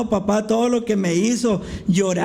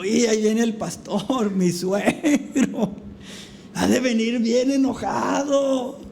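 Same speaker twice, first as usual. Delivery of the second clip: mock fear; 2 semitones higher than usual. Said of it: "de miedo".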